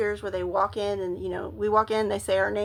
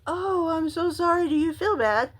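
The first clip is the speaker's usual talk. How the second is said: mock sympathy; 6 semitones higher than usual. Comforting vomiting husband, retold.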